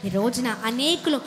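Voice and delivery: fervent preaching. Acted. Preaching litany of many.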